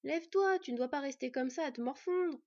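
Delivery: urging. Acted. Boy urging elf brother.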